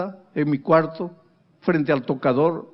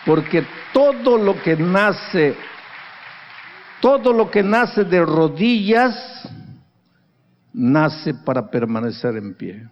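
lento y solemne, cada frase marcada; proclámalo despacio como una verdad eterna; predicación enfática; slower than usual. Acted. (el pastor proclama a la congregación, solemne y lento)

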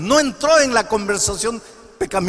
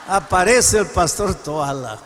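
"Aparece el pastor Toala" drawn out slowly, each word spaced; slow it down for suspense; slow dramatic repeat; 3 semitones lower, slower than usual. Shown as a demonstration. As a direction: unveil the arrival slowly.

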